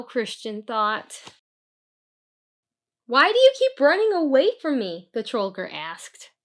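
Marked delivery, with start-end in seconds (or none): 3.1-5.1 louder and higher, rushed and pressing; a hulking troll calling after the runaway, fast; loud troll demand. Acted. Troll calls after the fleeing boy, loud and rushed.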